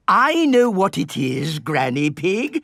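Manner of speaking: loud, put-out retort; indignant protest. Acted. Grandpa Pig answers Granny about the tin opener, loudly indignant. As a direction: protest loudly at being told the obvious.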